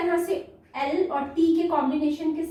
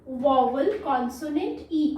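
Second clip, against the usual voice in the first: slow and clear; slower than usual. Shown as a demonstration. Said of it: "full form क्या है इसकी".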